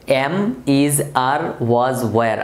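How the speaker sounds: measured word-by-word recitation; read-along drill. Shown as a demonstration. Teacher leads students reading verbs along, measured drill. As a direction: recite each verb separately for learners to follow. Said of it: "আমার সাথে পারলে একটু পড়তে পারো".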